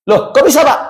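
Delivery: high-pitched surprised question; retold surprise, pitch jumping up; taken aback. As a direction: ask it as if caught off guard. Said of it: "Kaget saya".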